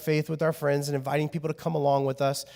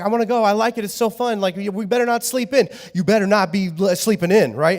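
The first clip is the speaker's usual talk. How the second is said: put-on bossy kid; 4 semitones higher, 5 dB louder than usual. Kid scolds parent.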